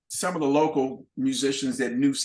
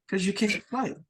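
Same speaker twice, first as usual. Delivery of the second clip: higher, flat-out dismissive voice; blunt put-down; 6 semitones higher than usual. Retold or imitated. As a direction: cut him down in one line.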